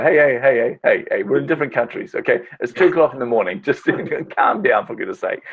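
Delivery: laughing at a friend's two am calls; mock exasperated scolding. Telling a friend calling at two am to calm down, laughing exasperation.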